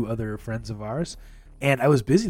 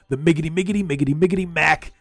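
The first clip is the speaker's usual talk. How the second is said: hype-man intro; 3 semitones higher, 4 dB louder, faster than usual. Acted. Hyped introduction of co-host.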